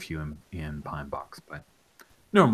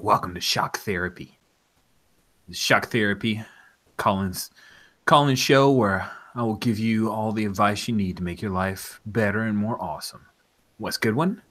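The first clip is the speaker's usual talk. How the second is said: radio DJ; 2 semitones higher, 4 dB louder than usual. Acted. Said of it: "says his name's Wes".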